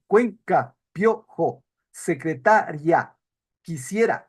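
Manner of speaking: each word said slowly with vowels joined; vowels kept together. Shown as a demonstration. Teacher demonstrating diphthongs to the class. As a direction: model the diphthongs held as one syllable. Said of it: "pronunciarías así".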